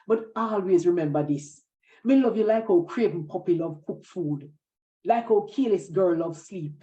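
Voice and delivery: patois love poem read aloud at an easy pace; poem recital. Acted. Poet reads her poem written for Miss Lou, recited. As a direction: recite it like tender verse for a friend.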